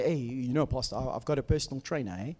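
light South African congregant voice; broad South African accent. Retold or imitated. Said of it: "People say".

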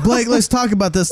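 mock him pleading to talk; mock calm guy. Imitating the creep asking to talk, singsong. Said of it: "he's like".

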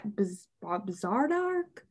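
"Bizardark" drawn out haltingly, unsure how it is pronounced; unsure pronunciation. Real, not acted. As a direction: sound out "Bizardark" slowly, tentatively. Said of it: "I don't know how to pronounce it".

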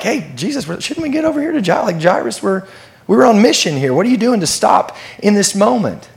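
a hint of fretting followers; impatient disciples. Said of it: "these guys maybe know, like".

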